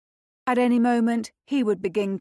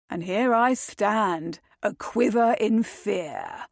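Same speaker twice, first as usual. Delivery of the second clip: drawl; slower than usual. Acted. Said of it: "Brandon drawled".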